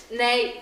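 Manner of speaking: "Nay" said as in Northern German dialect. Shown as a demonstration. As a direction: give the bird's "Nay" a Northern German sound. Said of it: "we say in Northern German dialect".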